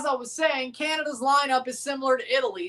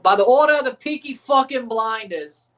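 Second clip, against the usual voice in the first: Tommy Shelby quote; 6 dB louder than usual. Retold or imitated. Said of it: "That was a Tommy Shelby quote".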